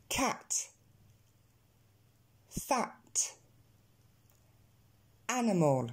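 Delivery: "Cat" and "Fat" with a wide-open English a; "Animal" opening on a wide a, mouth dropped. Shown as a demonstration. Teacher giving three reference words, open A pronunciation. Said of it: "il est plus ouvert".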